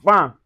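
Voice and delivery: "vin" as a nasal va, no N sounded. Shown as a demonstration. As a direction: say "vin" with one nasal vowel. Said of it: "We say".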